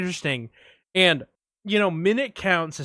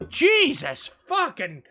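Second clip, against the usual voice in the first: high, slow, pleading exasperation; hammed-up weary disbelief; exasperated; 8 semitones higher, slower than usual. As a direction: beg to just get the tow. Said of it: "And I'm like".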